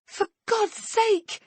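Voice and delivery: high, loud, slow cry of despair; horrified mother cries out; desperate cry. Acted. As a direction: scream it as the knife goes in. Daughter cut with knife.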